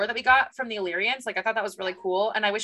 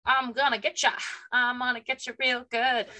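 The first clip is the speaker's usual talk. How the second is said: lightly put-on, higher menacing voice; mock villain threat; 4 semitones higher than usual. Villain threatening at the archway, mock menace. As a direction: play-act a teasing villain's threat.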